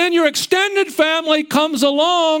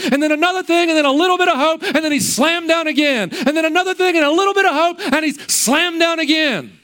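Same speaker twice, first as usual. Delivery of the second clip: rising faster and higher with each line; building intensity; 4 semitones higher, faster than usual. Acted. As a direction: build the momentum line by line, pitch climbing. Building sermon repetition.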